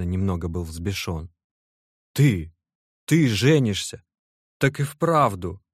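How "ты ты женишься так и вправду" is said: higher and louder, stunned yelling; shouting at the top of his lungs. Acted. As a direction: bellow it in disbelief. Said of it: "закричал благим матом Аркаша". (Аркаша во всё горло кричит от изумления)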